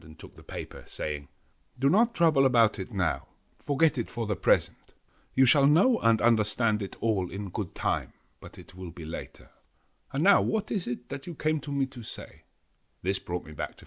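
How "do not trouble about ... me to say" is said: higher, louder firm professor; Van Helsing steering away. A narrator's reading. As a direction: brush it aside kindly but firmly.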